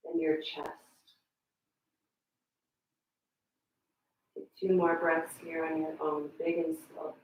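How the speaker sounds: calm breathing guidance with long pauses; guided meditation. Real, not acted. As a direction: guide them gently through each breath, leaving space. Leads breathing and relaxation.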